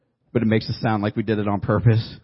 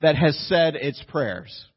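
quoted with weight; 4 semitones higher, slower than usual. Shown as a demonstration. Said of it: "I love this quote".

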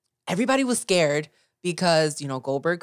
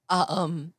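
voice cracking; 3 dB quieter than usual. Real, not acted. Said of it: "oh, my voice just cracked".

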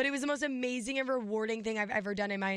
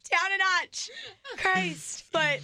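raspy whisper; 8 semitones higher, 5 dB louder, much slower than usual. Real, not acted. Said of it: "you sound so sexy".

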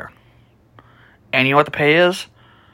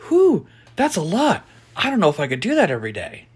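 imitating the boss; 6 semitones higher than usual. Quoting the boss.

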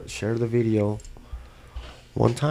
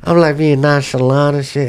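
laughing while talking, higher; 5 semitones higher, 6 dB louder than usual. Real, not acted. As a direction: giggle through the words. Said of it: "I'm in the casual mode".

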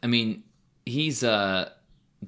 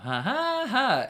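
high hammed-up fake laugh; mock laugh; 3 dB louder, much slower than usual. Comic mimicking a heckler's laugh in the crowd. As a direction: imitate a loud fake audience laugh. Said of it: "and then I hear".

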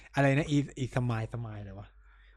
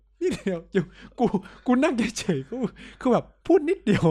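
mocking irritated nurse; 7 semitones higher than usual. Friend mocks a hospital nurse snapping at patients. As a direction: ham up the testy nurse.

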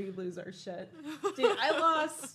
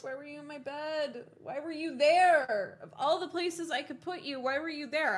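mock scolding; 5 semitones higher, 4 dB louder than usual. Host scolds her bent glasses for being in bed, mock exasperated. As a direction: scold the glasses like a naughty child.

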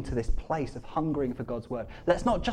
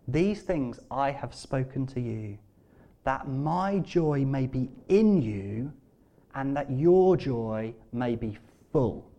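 slow, lower, measured reading; solemn scripture reading; 4 semitones lower, slower than usual. Real, not acted. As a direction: deliver the verse slowly and deliberately. Reads out the words of Jesus.

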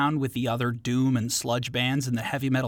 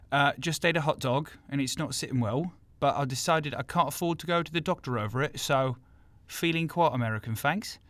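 mock American accent from a would-be Londoner; put-on London-American accent; South Londoner attempting American accent. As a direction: play a Brit badly faking American. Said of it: "trying to do an American accent".

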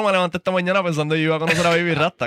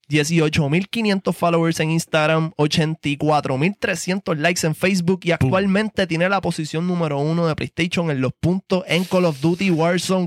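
show host intro. Acted. Host introduces King Impact to the audience, hyped.

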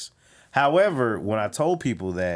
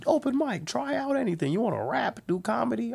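high-pitched announcer invitation; imitated emcee, voice pitched up; open mic host. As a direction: call out the offer to the room.

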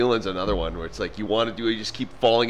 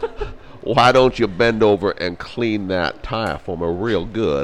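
Southern gentleman drawl; slower than usual. Pretend. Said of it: "Now you sound like someone".

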